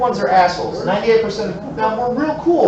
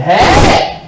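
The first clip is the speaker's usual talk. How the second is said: slow, louder gloating jab; gloating taunt; 4 semitones higher, 3 dB louder, slower than usual. Retold or imitated. To the crashed bus driver, a slow gloating taunt. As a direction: savour the payback slowly.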